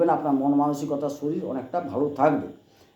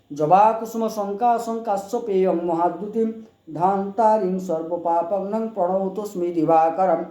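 mantra recitation; 2 semitones higher, slower than usual. Shown as a demonstration. Recites sun pranam mantra.

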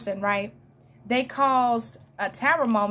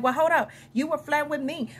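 raised-pitch indignant objection; mock jealous protest; 4 semitones higher than usual. Jealous admirer confronting the flirt, mock indignant. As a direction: act out someone feeling led on. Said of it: "Now they jealous".

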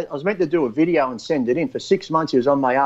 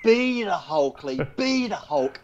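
higher, drawn-out coaxing, a lightly camp coach voice; coaxing director; 4 semitones higher, slower than usual. Retold or imitated. Motion-capture director urging Lee on, in a coaxing higher voice. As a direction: egg him on to be the Hulk, slow and high. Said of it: "this gay guy's like".

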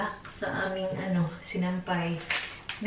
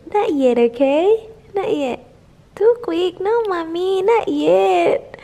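louder, lilting questions to a little one; 9 semitones higher, 11 dB louder than usual. Real, not acted. Mother chats to her baby.

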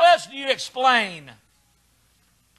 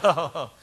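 imitated sobbing "oh"; half-laughing fake sob; mock crying; 5 semitones lower than usual. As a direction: pretend to boo-hoo like a beaten player. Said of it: "sit in the dugout and cry".

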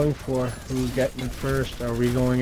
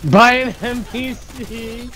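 loud, slow, high disbelief; outraged that an NPC did it; indignant outburst; 8 semitones higher, 6 dB louder, slower than usual. Real, not acted. Indignant at being attacked by an NPC.

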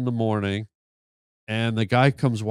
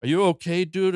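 retold freaked-out worry; 5 semitones higher than usual. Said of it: "freaked out".

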